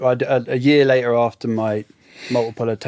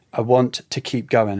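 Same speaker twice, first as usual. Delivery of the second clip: voice breaking. Retold or imitated. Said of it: "the more you hear my voice breaking".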